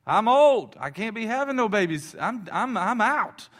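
put-on high, loud old woman, fed up; cranky old Sarah declaring she's done; a hammed-up old lady giving up on babies. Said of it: "Sarah says".

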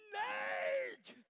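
sudden high yell of alarm; hollered warning. Retold or imitated. Preacher retelling the rattlesnake at the deer lease, hollering in alarm. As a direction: scream it out like you just saw a rattler. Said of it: "I hollered".

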